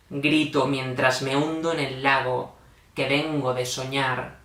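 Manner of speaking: measured, solemn poetry reading; falling cadence at each verse end; poem recitation. Acted. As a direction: recite line by line, pausing after each phrase.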